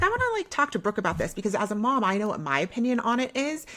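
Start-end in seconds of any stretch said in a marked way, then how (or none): 0.0-1.3 retold thought. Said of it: "I was like".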